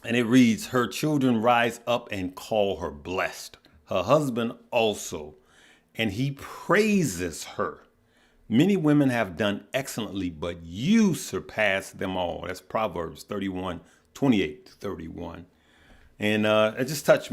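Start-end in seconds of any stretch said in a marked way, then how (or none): 0.7-12.4 scripture reading. Real, not acted. Reads Proverbs scripture aloud.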